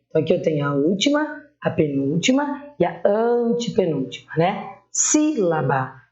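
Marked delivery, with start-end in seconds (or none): 4.9-6.0 Sílaba slowly, with the first syllable SÍ drawn out; stress on SÍ. Shown as a demonstration. Teacher giving a proparoxytone example, stretching SÍ in Sílaba. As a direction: lean long on SÍ in Sílaba, let the rest fall. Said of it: "antepenúltima sílaba é a tônica".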